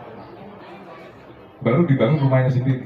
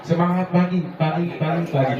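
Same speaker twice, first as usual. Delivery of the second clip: higher, brisk cheer call; quick trainer's call; intended cheer; 4 semitones higher than usual. Shown as a demonstration. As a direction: show how it should go. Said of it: "padahal udah saya kasih tahu".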